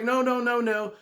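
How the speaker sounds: high, loud no-no-no, brushing him off; emphatic refusal. Retold or imitated. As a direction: insist firmly, voice up. Woman insists on refusing Shalako.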